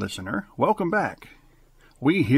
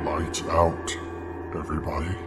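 spooky announcer; 8 semitones lower, 6 dB quieter than usual. Acted. Radio host opens the horror show in a low voice. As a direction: lower the voice, invite the dark.

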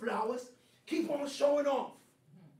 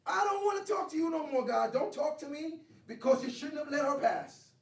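sulky refusal. Retold or imitated. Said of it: "That's my attitude".

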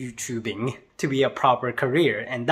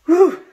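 sudden high "whew" of relief; loud high whoop; 12 dB louder than usual. Real, not acted. Vlogger after finally sending a package, relieved whoop. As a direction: let out a big relieved whoop. Finally got the box sent.

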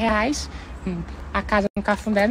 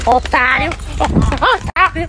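angry shout; 3 semitones higher, 4 dB louder, slower than usual. Acted. Insulting someone outside.

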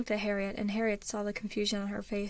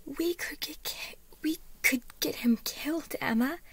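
urgent, higher-pitched warning; grave; 6 semitones higher than usual. A narrator's reading. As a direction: press the danger on a friend. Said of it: "all the gravity of the situation in her tone".

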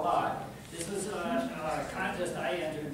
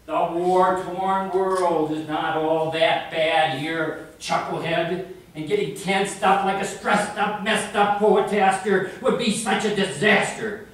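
declaimed poem; 10 dB louder than usual. Acted. Poem voice scolds.

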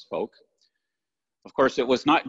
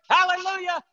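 very high mock crowd shout; imitated shouted reply; 4 dB louder than usual. Church replying to the pastor's praise, imitated high shout. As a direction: cry it back at the top of the range. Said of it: "And he shouted".

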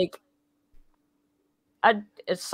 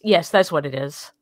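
lower, sarcastic agreement; 5 semitones lower than usual. Real, not acted. Answering friends who pressed for a reason, sarcastic. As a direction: concede it with mock sincerity. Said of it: "That's sarcasm".

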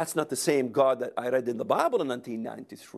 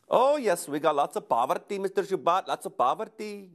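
higher-pitched imitation of an Indian accent; mock Indian accent with a high, emphatic start; 4 semitones higher than usual. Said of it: "You know how that Indian accent again".

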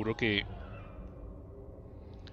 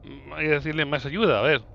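pen in mouth; 4 dB louder than usual. Real, not acted. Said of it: "tengo el lápiz en la boca".

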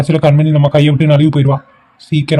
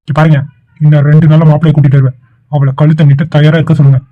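stern ultimatum; 3 dB louder than usual. Acted. Brother announcing marriage to mother.

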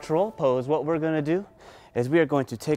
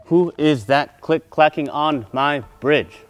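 loud troll challenge; lightly voiced, louder troll; mean troll; 5 dB louder than usual. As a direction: demand an answer as the troll. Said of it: "He goes".

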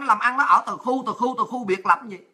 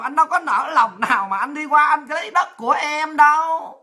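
a hint of a syrupy pleading official, laughing; hammed-up sweet talk to a neighbour; mock pleading leader; 2 semitones higher than usual. Vietnamese leader begging Hun Sen not to misunderstand, mock pleading.

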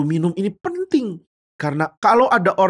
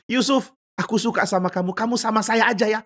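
higher-pitched coaxing woman; lightly voiced seductress, pitched up; flirting wife; 7 semitones higher than usual. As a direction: coax him in a higher voice.

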